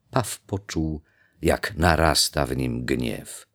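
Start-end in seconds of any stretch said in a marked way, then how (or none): none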